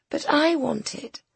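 high, slow spoilt whine; pouting. A narrator's reading. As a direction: pout it like a spoilt child. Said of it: "pouting prettily".

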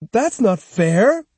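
put-on high, slow protesting boy's cry; a boy crying out it's unfair; indignant boy. A narrator's reading. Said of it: "cried Jotaro".

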